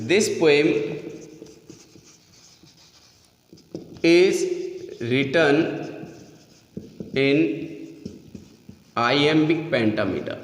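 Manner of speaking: word by word with long pauses; slow dictation. Real, not acted. Teacher dictating notes on the poem's meter, slow dictation. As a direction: dictate slowly, leaving big gaps to write. Dictating a sentence while writing it.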